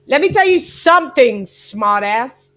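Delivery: rough attempt at a Ukrainian accent, punchy opening; Klimas. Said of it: "this is what he said".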